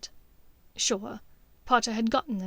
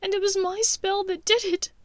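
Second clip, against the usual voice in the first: mournful; 10 semitones higher, 4 dB louder than usual. A narrator's reading. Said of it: "she said mournfully".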